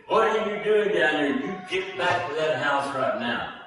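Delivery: a father's sudden scolding shout that falls back to near normal; retold angry shout. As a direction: bark it at a child like a harsh father. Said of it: "his father screamed at him".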